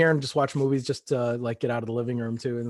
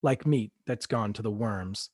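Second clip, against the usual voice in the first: measured dramatic storytelling read; story narration. Acted. Author reading own novel to interviewer, dramatic narration. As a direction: read the dark tale aloud, deliberately. Reads own fiction aloud.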